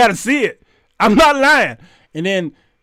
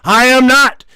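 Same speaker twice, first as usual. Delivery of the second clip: loud, high mock proclamation; thespian; 6 semitones higher, 8 dB louder than usual. Defendant turns to the audience, theatrical. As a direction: declaim it like a hammed-up actor. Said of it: "he went on with his thespian".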